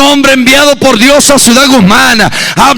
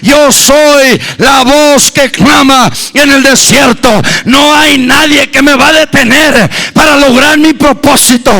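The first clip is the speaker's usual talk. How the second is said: bold John. Retold or imitated. Preacher voices John crying out in the desert, boldly. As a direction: proclaim it like the prophet. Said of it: "Juan decía".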